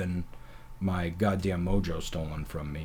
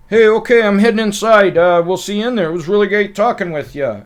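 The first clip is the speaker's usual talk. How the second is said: very loud, high awkward goodbye; nervous exit line; 13 semitones higher, 15 dB louder than usual. Retold or imitated. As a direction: blurt out a goodbye in panic. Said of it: "finally I was like".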